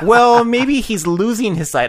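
dad's voice. Retold or imitated. Dad offering his kids an explanation, slow high mock-dad voice. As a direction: stretch it slowly upward, imitating a dad. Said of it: "my dad's like".

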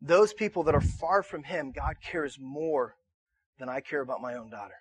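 ordinary delivery

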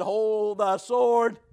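slow, commanding call; Paul calling out. Retold or imitated. Paul calling to the jailer in the dark, slow and firm. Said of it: "He hears Paul's voice said".

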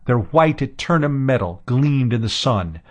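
usual speaking voice

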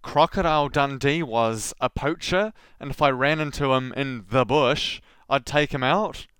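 rising, disbelieving repeat of his words; quoting him back with a baffled rising tune; incredulous echo. Real, not acted. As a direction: say it back as if you can't believe it.

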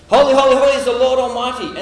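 loud, high, exultant declaration; ringing praise, half laughing; angel proclamation. Acted. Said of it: "they're shouting".

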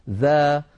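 "ذا" with a thin, unemphatic vowel; light dhal. Shown as a demonstration. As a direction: say "ذا" lightly, no heaviness. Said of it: "فلا استعلاء ولا تفخيم في الذال".

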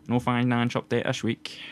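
slow, broad Glaswegian accent; Glasgow accent. Shown as a demonstration. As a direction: lay on a thick working-class Glasgow accent. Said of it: "Do that again?".

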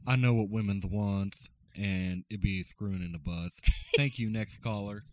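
a hint of a lisping radio smoothie; Ladies' Man lisp. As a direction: lightly lisp like a late-night host. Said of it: "He does it with a little bit of lisp".

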